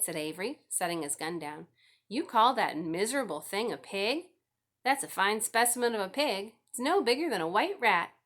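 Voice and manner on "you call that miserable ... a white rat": put-on scoffing boy. A narrator's reading. Brother mocks the pig.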